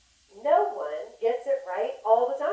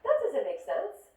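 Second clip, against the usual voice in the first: higher, louder scolding relative; disapproving family; 5 semitones higher, 4 dB louder than usual. Retold or imitated. Family members telling the dreamer they are crazy, scolding. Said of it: "the conventional wisdom would say".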